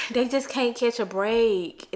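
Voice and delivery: sad. Real, not acted. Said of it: "That is so sad to me".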